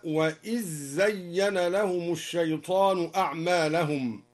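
"وإذ زين" as wa-iz-zayyana; dhal merged into zay. Shown as a demonstration. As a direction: recite "وإذ زين" with a doubled z and no dh. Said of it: "وأدغم الذال في الزاي". (إدغام الذال في الزاي في "وإذ زين")

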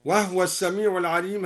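"وهو" as wahwa, vowelless h; al-Duri reading. Shown as a demonstration. Teacher giving another example, "وهو" pronounced wahwa. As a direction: close the h in "وهو" without a vowel. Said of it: "هكذا سكن الهاء".

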